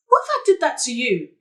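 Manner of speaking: heated, wounded reproach; indignant, voice rising in argument; hurt accusation. Acted. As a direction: throw the betrayal back at your friend. Acted quarrel between former best friends.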